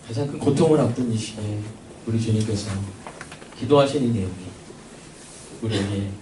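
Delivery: low, soft pleading prayer. Real, not acted. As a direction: pray it quietly, with long pauses.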